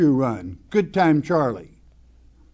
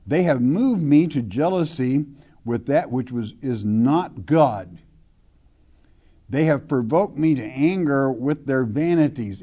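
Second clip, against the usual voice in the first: scripture reading. Acted. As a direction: read the verse with weight, like a preacher. Reads scripture aloud from pulpit.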